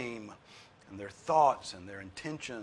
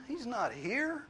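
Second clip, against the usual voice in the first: much higher, louder triumphant cry; jubilant proclamation; 14 semitones higher, 8 dB louder, slower than usual. Real, not acted. Preacher proclaiming the resurrection, high and loud. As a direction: ring it out in triumph.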